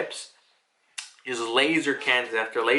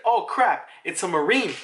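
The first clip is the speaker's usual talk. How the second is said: startled; 5 semitones higher than usual. Retold or imitated. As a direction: react in sudden alarm at the Marine. Frankie spotting the enemy.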